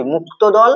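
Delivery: মুক্ত দল said carefully, each syllable distinct; careful enunciation. Shown as a demonstration. Teacher repeats the term properly for students, মুক্ত দল carefully articulated. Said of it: "ভালো করে বলছি".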